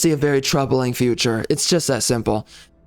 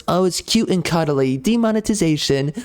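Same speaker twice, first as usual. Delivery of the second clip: higher, sing-song mock of a smug censor; mocking impression; 4 semitones higher than usual. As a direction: sneer it out like a patronising moderator. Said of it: "Enough with this bogus nonsense where it's".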